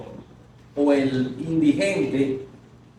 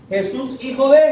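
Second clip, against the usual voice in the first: high, loud call to Jesus; crying out; 7 semitones higher, 6 dB louder than usual. Acted. Preacher showing how the blind man shouted, loud high call. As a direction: shout to be heard over the crowd. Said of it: "¿cómo le gritó a, a Jesús?".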